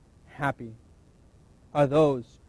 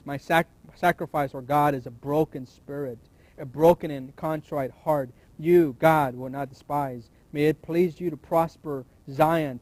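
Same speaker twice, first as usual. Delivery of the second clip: scripture reading. Acted. Preacher reading a psalm to the church, earnest and measured. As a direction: read the psalm as a heartfelt prayer before the congregation.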